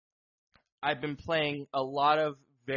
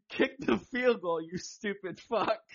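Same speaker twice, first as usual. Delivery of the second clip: mock frustrated yell; 4 semitones higher than usual. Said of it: "my next thing was".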